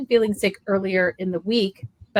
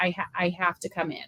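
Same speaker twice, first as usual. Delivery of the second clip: put-on sick-sounding voice, quieter; 7 dB quieter than usual. Retelling Logan telling the team he must stop, imitating Logan sounding unwell. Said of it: "Like you could just hear it".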